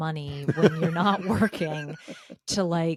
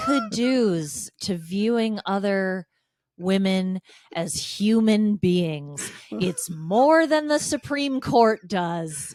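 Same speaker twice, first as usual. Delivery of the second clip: sarcastic praise; 5 dB louder, slower than usual. Pretend. Slow, louder mock praise.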